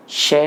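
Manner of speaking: isolated श made at the palate; palatal SH demo. Shown as a demonstration. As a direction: model श alone as a short clear sh syllable. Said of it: "मैं क्या उच्चारण कर रहा". (तालव्य श का अलग उच्चारण)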